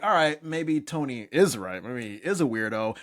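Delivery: ordinary talk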